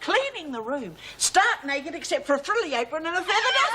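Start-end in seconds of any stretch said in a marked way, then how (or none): 1.2-3.7 laughing out the punchline. Acted. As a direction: crack up on the last words. Punchline of the funny story.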